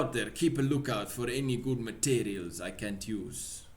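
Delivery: put-on loud-starting Russian accent. Pavlov reminding his friend about materials, Russian accent. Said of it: "I keep losing the accent".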